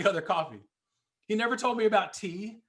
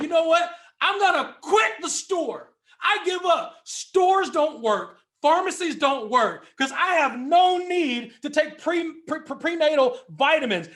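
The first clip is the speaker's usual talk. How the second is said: quit the store in a hammed-up huff; mock tantrum; 3 semitones higher than usual. Speaker acting a guy quitting the pharmacy, mock outburst. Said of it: "freaked out and said".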